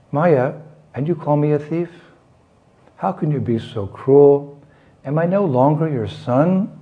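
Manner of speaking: mildly acted hurt child, pitch lifting on the questions; a touch of wounded pleading, without real tears; tearful protest. Krishna to his accusing mother, mildly tearful protest. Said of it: "Then Krishna started crying".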